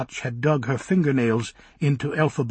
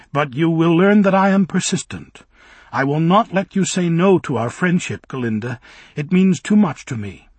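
a hint of a young man pleading, louder and higher; earnest Bock; 5 semitones higher, 7 dB louder than usual. Bock insisting on friendship with Galinda, earnest and louder. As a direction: push it out with stubborn sincerity.

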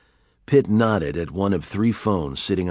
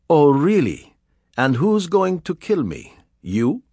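mocking villain; 9 semitones higher, 4 dB louder than usual.

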